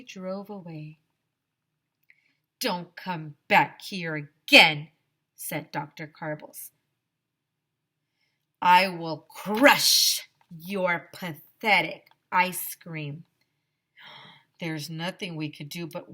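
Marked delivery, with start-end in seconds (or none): 2.6-4.9 loud, slow menacing warning; loud slow threat. Acted. Principal warning the ice cream man away, loud and slow. 8.6-13.2 loud, slow gloating threat; loud menacing threat. Acted. Principal gloating over the ice cream man, loud and slow.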